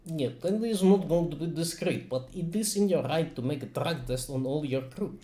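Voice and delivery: put-on Russian accent. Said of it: "I like my Russian accent".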